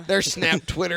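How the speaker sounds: high sing-song laughing. Pretend.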